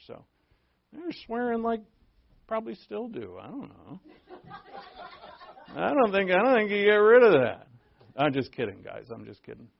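ordinary talk

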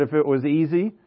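lightly imitated Irish accent, picking up pace; uncle's Irish accent. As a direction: quote the uncle with a slight Irish lilt. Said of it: "with his accent".

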